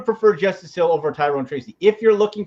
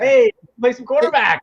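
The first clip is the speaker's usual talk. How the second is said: high hammed-up call; mock coaxing; 7 semitones higher, 3 dB louder than usual. Coaches asking the benched quarterback to play, mock coaxing. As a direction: wheedle him in a raised, put-on voice.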